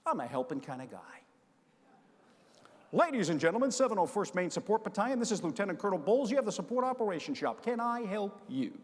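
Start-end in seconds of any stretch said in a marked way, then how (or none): 2.9-8.8 a hint of a formal officer picking up the line; formal phone greeting. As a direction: answer like an officer on duty. Colonel formally answering the phone.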